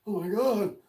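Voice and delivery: high-pitched imitation of a shocked friend; retold emotional shock. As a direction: act out his stunned, emotional reaction. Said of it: "he starts, like, getting emotional".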